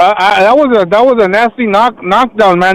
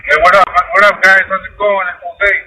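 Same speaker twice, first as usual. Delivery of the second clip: distant speakerphone audio. Real, not acted. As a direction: caller heard through a speaker. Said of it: "it sounds like you're far away, and it sounds like you're on the speakerphone".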